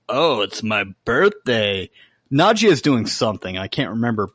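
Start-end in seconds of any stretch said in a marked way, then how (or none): 0.1-1.9 slow, a lightly voiced lecherous vampire; Laszlo delighted. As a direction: draw it out with relish. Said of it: "He's like".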